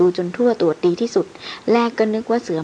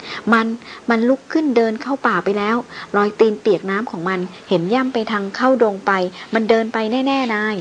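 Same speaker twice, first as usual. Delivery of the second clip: panicked gasping report; 5 semitones higher than usual. Acted. Porter gasping to his boss about the walking corpse, panicked. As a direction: blurt it out in a panic, out of breath. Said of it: "ทั้งสองกระหืดกระหอบ ฟังแทบไม่เป็นภาษา".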